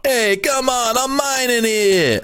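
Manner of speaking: squeaky high-pitched joking protest; high mock whine. Joking to the cohosts, high squeaky mock protest.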